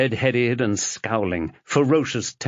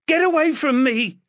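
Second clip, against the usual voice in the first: high, loud scream; screaming shout; 4 dB louder than usual. Acted. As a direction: drive him back with a yell. Chloe pushing Fenchurch away.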